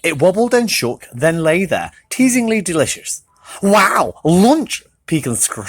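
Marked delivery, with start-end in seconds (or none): 3.6-4.8 shouted. Acted.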